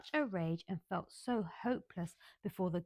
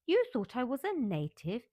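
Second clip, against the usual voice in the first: furious; 5 semitones higher, 6 dB louder than usual. Acted. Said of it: "Mary sat up in bed furious".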